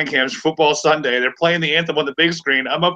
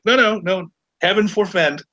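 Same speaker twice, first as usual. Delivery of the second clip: mock horror; 5 semitones higher than usual. Mocking people denying being commies.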